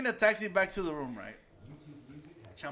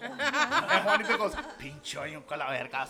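laughing; 4 dB louder than usual. Real, not acted. Retelling while laughing.

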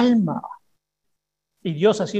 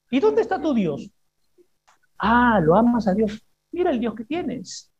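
mocking taunt. The enemy mocking the believer's God, mild sneer. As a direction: sneer at their faith. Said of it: "Te va a decir cosas como esta".

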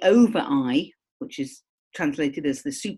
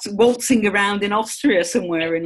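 laughing tease; 4 semitones higher, 5 dB louder than usual. Real, not acted. Teasing the listeners, laughing.

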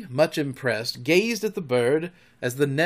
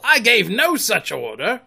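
shaken; 9 semitones higher, 8 dB louder than usual. A narrator's reading. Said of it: "shaking a little".

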